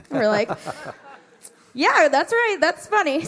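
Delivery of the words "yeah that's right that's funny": loud, high laughing mock agreement. Presenter teasing the giggling kids, loud and laughing. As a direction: laugh along like you're joking with kids.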